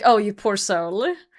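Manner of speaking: put-on pitying tone. Retelling how people react to the game mode: imitating a pitying tone. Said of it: "I feel sorry for you" type of sentence".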